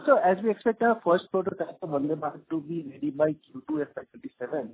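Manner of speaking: faint voice cutting out; breaking up on a bad line; barely audible. Real, not acted. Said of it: "your voice is again breaking".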